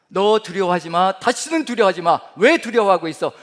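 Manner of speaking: loud, stern scolding; rebuke. Pretend. God scolding a fearful believer, loud stern rebuke. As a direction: scold the listener loudly for being afraid. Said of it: "라는 질책으로 들리시나요".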